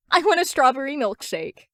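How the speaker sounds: loud eager demand; eager request. A narrator's reading. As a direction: call out the order together, excited. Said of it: "they say in unison".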